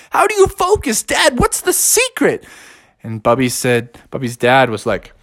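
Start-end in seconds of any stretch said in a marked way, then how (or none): 0.1-2.4 high eager question. Acted. Bear asks dad.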